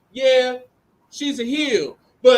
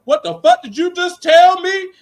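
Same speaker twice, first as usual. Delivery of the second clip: higher, louder mock snap; hammed-up furious comeback; mock angry retort; 7 semitones higher, 6 dB louder than usual. Andre Chase snaps back at Alpha Academy, mock angry. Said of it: "He go".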